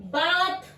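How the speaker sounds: BATH as बात with long open 'aa'; long aa pronunciation. Shown as a demonstration. Teacher models बात, careful long-vowel pronunciation. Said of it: "इसको बात बोल रहे हैं, बड़ा आ".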